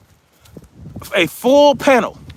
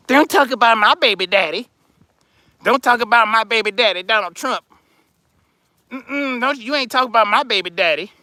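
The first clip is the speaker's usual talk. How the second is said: mock defensive girlfriend. Mocking a loyal supporter as girlfriend.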